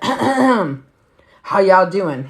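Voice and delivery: put-on slow, drawn-out drunk greeting; lazy drunk hello; drunk boyfriend greeting. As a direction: stretch it out like a tipsy guy at the mic.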